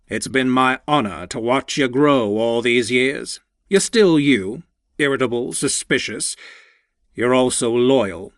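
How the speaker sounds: lightly voiced fond older mentor; a hint of a proud old boss, heartfelt; older man voice. Walter continues his speech.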